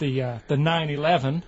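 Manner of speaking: badly faked American accent. Holidaymaker imitates Americans from Barbados, weak American accent. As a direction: lightly attempt an American accent. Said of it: "Do that American accent again?".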